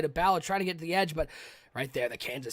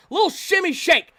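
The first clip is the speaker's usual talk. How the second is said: relishing a juke; 10 semitones higher, 7 dB louder than usual. Real, not acted. Savouring a juke move.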